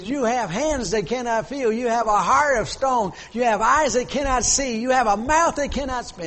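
loud, high, hammering accusations; imitated screaming. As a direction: cry out each charge as the grieving mother. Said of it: "she was screaming and hollering".

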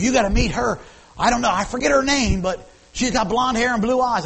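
put-on high, loud old lady voice; grandmother's voice. Preacher voicing his grandmother's matchmaking, high and loud. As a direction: push it up high and loud like granny. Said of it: "She said".

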